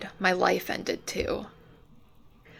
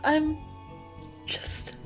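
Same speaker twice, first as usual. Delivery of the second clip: loud, higher, frustrated venting; anguished outburst; 4 semitones higher, 3 dB louder than usual. Acted. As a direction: spill out years of frustration. Emotional outburst about being trapped.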